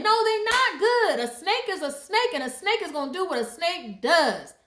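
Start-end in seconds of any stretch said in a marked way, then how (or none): 0.0-1.2 louder, slower, stress on "not"; firm no. Real, not acted. Telling viewers people aren't good, loud and slow. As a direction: shut the idea down hard on "not". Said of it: "correcting her old belief".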